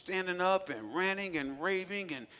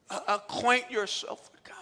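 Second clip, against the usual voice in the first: tag; 4 semitones higher, 5 dB louder than usual. Real, not acted. Repeats scripture for emphasis.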